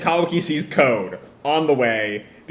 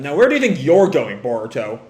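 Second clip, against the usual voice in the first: mild parental snap, louder then dropping; snapping; 3 dB louder than usual. Acted. Naruto catching Boruto going after Kawaki, snapping. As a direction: sharply stop a child leaving. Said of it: "And Naruto snaps at him".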